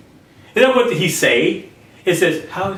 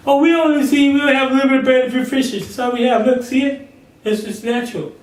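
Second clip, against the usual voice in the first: higher, fast, fretting disciple voice; anxious disciple pleading over a little bread; doubting disciple; 5 semitones higher, faster than usual. Acted. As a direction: play the worried follower counting bread.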